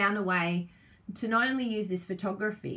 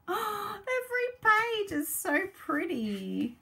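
much higher and slow after a gasp; gasp, then marvel slowly; gasping delight; 11 semitones higher, slower than usual. Real, not acted. Crafter flips through every page, gasping high delight.

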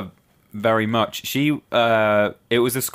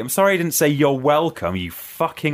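raised-pitch retold comeback; exasperated, higher mock tirade; indignant rant; 6 semitones higher than usual. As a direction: rant back as if wronged. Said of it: "I was like".

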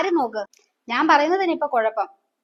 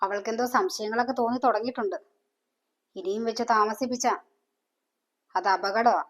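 hushed scheming; 4 semitones lower, 6 dB quieter than usual. Acted. Mother plotting on the phone.

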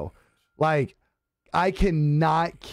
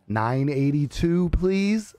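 mock slow talk; 3 semitones lower, slower than usual. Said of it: "she talk super slow".

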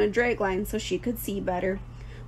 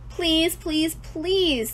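high, drawn-out pleading; teasing, begging goslings; 7 semitones higher, much slower than usual. A narrator's reading. Goslings begging their mother to go, teasing. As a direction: plead like a pestering little gosling. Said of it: "They all began teasing to go".

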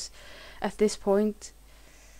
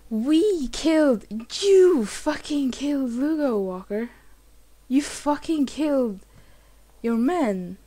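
angry accusation; 2 semitones higher than usual. Real, not acted. Accusing Walker in anger.

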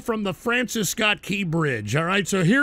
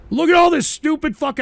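exasperated outburst; 7 semitones higher, 5 dB louder than usual. Real, not acted. Angry rant at donation requests.

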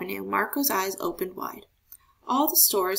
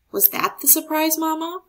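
eager shout; 8 semitones higher than usual. A narrator's reading. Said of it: "Marco shouted".

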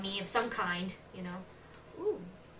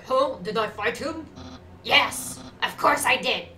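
game character voice; 6 dB louder than usual. Acted. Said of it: "okay, that was still him".

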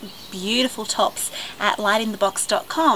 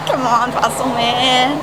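impatient urging; 5 dB louder, slower than usual. Real, not acted. Urging driver from window.

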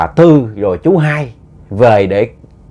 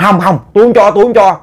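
higher, louder refusal; firm refusal; 7 semitones higher, 4 dB louder than usual. Retold or imitated. Wife refuses to give up her child, firm raised refusal. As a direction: push the demand away firmly. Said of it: "thím nói".

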